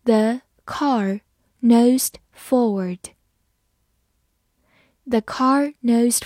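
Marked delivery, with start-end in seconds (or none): 0.1-3.1 very slow, word by word with pauses; slow reading. Shown as a demonstration. Teacher leading learners through the example, slowly. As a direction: read it slowly, each word set apart. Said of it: "好，我们慢慢来读".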